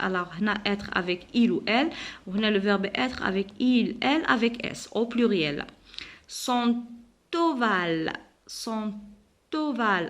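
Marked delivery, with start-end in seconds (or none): 6.3-10.1 "Son ovale" split slowly as son-tovale; pause, then sound a T into "ovale"; "ovale" launched with a linking t; liaison. Shown as a demonstration. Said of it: "la liaison entre le T et le O".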